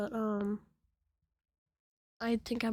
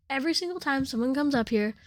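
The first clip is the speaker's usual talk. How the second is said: higher-pitched imitation of an annoyed classmate; exasperated complaint; 4 semitones higher, 4 dB louder than usual. Classmate calls out the laughing teller mid-speech, exasperated. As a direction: act out an exasperated call-out.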